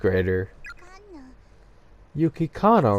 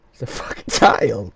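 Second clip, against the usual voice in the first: whisper; 4 dB louder than usual. Real, not acted. Disbelieving aside.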